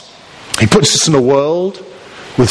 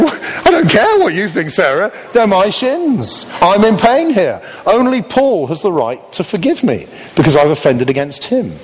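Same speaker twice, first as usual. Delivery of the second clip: mock outrage; 5 semitones higher than usual. Kicked man complaining to Sarah, with mock outrage.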